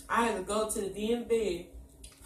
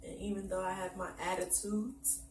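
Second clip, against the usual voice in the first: soft sincere love declaration; heartfelt; 5 dB quieter than usual. Real, not acted. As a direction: speak softly from the heart. Wife's heartfelt message to husband.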